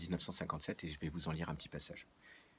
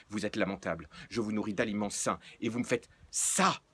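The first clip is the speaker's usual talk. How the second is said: rapid-fire scolding; 2 semitones higher, 6 dB louder than usual. Acted. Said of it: "parlant en mitraillette".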